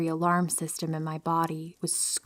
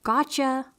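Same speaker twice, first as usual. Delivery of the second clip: higher-pitched playful gotcha; mock shout; 7 semitones higher than usual. A narrator's reading. Imagined uncle springing his prank, mock shout. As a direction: call it out like a prankster, lightly. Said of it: "will shout".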